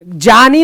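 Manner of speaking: ज्ञानी said as "jaani"; plain j in ज्ञानी, no y glide; mispronunciation demo. Shown as a demonstration. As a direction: say ज्ञानी with "ja" at the start. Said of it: "ज्ञानी नहीं, ज नहीं".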